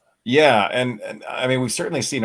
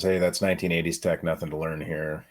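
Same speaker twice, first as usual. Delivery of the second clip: sarcastic; 2 semitones lower than usual. Retold or imitated. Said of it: "Yes, I'm being sarcastic".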